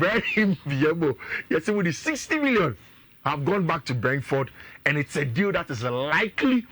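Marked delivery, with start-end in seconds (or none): 0.0-1.2 very slow "Brian Mbeumo", as im-bee-EH-mo; corrected pronunciation. Shown as a demonstration. Host confirming the player's name, very slow careful pronunciation. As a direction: draw out "Brian Mbeumo" with a bee sound inside. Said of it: "I say more than correct".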